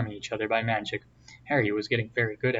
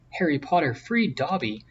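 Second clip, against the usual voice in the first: shrill; 5 semitones higher than usual. A narrator's reading. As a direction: squeak it out high and bright with glee. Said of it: "said the elf shrilly".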